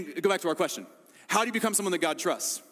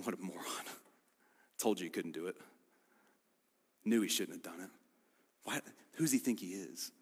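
snide mocking; 9 semitones lower, 10 dB quieter than usual. Disciples snickering at Peter.

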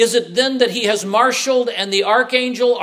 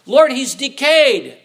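louder and slower, leaning on Lord; louder, slow lament; 5 semitones higher, 7 dB louder, slower than usual. Shown as a demonstration. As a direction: let the sorrow carry it out slowly. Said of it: "Now look at all the symbolism".

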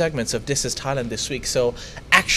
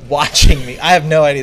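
louder, muddled put-on American accent; confused American accent; 7 dB louder than usual. Shown as a demonstration. Host admitting defeat to co-hosts in a confused American accent. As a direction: keep up a badly faked American accent. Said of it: "It's a confused accent".

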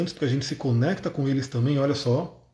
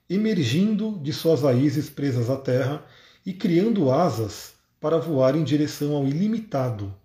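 reading aloud. Acted. Reads the zen book aloud.

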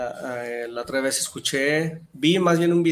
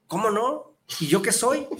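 higher, indignant barber retort; a barber protesting his existence; 5 semitones higher than usual. Retold or imitated. Barber protests to customer, higher and indignant.

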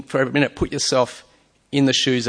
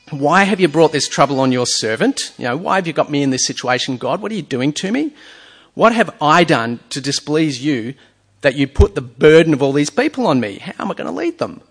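mildly voiced Moses; 4 dB louder than usual. Voicing Moses' complaint to God.

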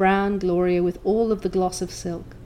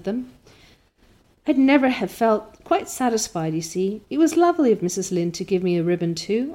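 rapturous Anne; 2 semitones higher, 3 dB louder than usual. Acted. Anne rapturous about dress.

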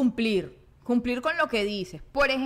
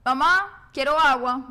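put-on little girl asking mom for water, whiny; whiny child; 3 semitones higher, 5 dB louder, slower than usual. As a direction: whine it like a lazy child. Child demanding water, voiced.

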